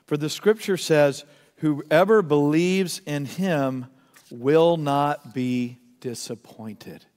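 slow, low reading, spacing out the words. Real, not acted. Preacher reads a loved verse to the congregation, slowly. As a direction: let each phrase land, deliberately. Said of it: "I want to read it slowly".

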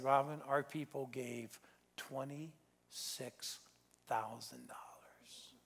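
slow, hushed, choked-up quote; retold tearful words. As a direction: lightly voice his tears, slow and soft. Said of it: "He was crying so hard".

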